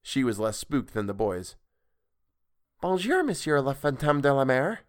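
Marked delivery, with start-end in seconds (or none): 2.8-4.8 put-on higher girl's voice, schoolroom French, every word clear; slow careful French. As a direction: speak French like a dutiful pupil. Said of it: "said slowly and clearly in the manner approved by her tutor".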